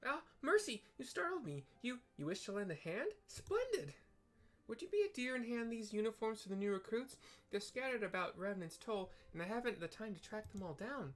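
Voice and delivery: high, fussy, frantic little receptionist; flustered Tataru. Acted. Tataru sorting a messy desk, high and frantic. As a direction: squeak out the fuss of a swamped clerk.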